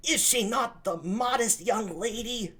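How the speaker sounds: put-on eager young lover; young Claudio.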